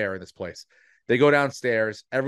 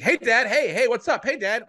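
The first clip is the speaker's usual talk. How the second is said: imitating an eager, overly attentive kid in a much higher voice; super attentive son; 12 semitones higher, 4 dB louder than usual. Son caught at the party greeting his dad, mock eager and much higher. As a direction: suck up to dad, all innocent and bright-eyed. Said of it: "Like, super attentive".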